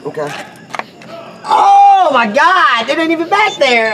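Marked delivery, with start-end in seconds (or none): 1.4-3.9 wound being cleaned. Real, not acted.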